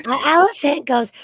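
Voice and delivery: loud, high elephant trumpeting. Pretend. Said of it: "Thanks for the demonstration".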